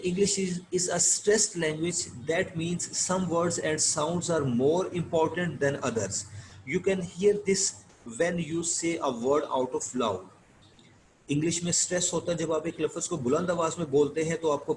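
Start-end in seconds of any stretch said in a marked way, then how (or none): 0.0-10.2 slow, careful reading of an English passage; slow reading aloud. Shown as a demonstration. Teacher reading the textbook to students, slow and deliberate. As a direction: read each word out slowly for the class. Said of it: "आइए इसको पढ़कर देखते हैं".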